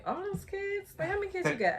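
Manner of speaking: incredulous gasp. Retold or imitated. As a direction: play the nosy stranger, high and amazed. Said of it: "somebody came up to me".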